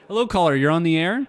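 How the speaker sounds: upbeat DJ greeting; radio host voice. Acted.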